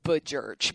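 "Bajurch" as a misread surname, two syllables run together; misreading the name as "Bajurch"; imagined mispronunciation. Retold or imitated. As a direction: say "Bajurch" as you'd wrongly guess it from an email. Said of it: "that's how I would say it".

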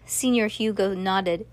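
ordinary delivery, nothing marked

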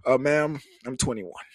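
low, polite, formal answer; deepened voice. Acted. Boyfriend telling mama his age, deepened voice. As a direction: drop into a courteous deep register. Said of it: "I tend to deepen my voice".

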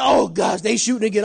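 startled cry, then falling back; mock panic. Coworkers panicking at the shooting, mock alarmed cry. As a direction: imitate coworkers flinching. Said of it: "they're like".

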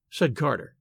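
plain reading voice

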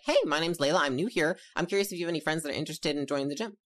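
casual upbeat pitch to a stranger; nice, not weird. Shown as a demonstration. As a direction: introduce yourself nicely, with easy confidence. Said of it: "just nice and not weird".

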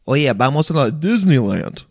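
Spanish line with hammed-up American "Disneyland"; mock jarring switch into broad American English; super Englishy American accent. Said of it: "You're not gonna say".

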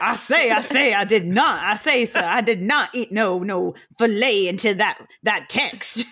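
fuller mock Southern gentleman. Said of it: "put your whole throat into that one".

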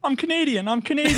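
high squeaky voice, hammed-up; squeaky Canadian voice. Friend imitating Geeks saying he's Canadian, high and squeaky. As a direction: chirp it like a silly cartoon Canadian. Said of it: "his thing is he'll be like".

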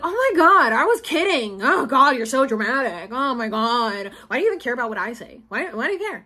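mocking mom. Daughter imitates her mom dismissing her hurt feelings, mock scoffing. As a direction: lightly mimic a dismissive mother who scoffs at you. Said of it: "she would just be like".

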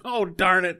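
mild cartoon frustration; high squeaky darn it; annoyed Buttons. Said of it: "He goes".

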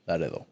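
Laredo said the Spanish way, lah-REH-tho; Spanish-style "Laredo"; Spanish pronunciation. Retold or imitated. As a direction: say "Laredo" with tapped R and soft d. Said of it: "everyone says".

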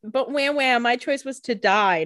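mock whining. Mocking the character's complaint.

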